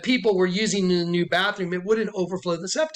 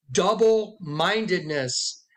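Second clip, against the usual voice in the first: usual speaking voice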